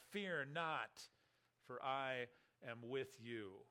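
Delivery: measured, solemn reading of scripture. Acted. Preacher reads Isaiah to the congregation, solemn and measured.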